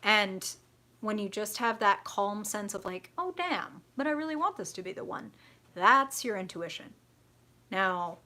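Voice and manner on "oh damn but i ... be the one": high-pitched reluctant protest; mock disappointment. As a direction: whine a little at unwelcome news.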